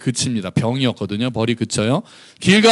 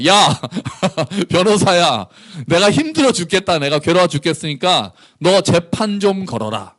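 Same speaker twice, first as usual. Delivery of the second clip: laughing, bossy banmal to the lawyer; blunt casual order. Pretend. God bossing his lawyer Micah around, blunt and casual. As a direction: order him around like an old buddy. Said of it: "존댓말 안 쓰셨겠죠?".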